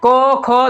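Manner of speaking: को, खो sounded from the throat; throat consonants. Shown as a demonstration. Teacher showing the sound coming from the throat, guttural articulation. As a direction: bring को, खो from the back of the mouth. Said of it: "कंठ से आवाज आएगा".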